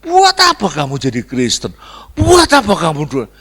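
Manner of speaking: loud jeer from a sibling; mocking taunt. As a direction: sneer loudly at the believer. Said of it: "kalau saudaramu mulai ngenyek". (ejekan lantang saudara yang meremehkan)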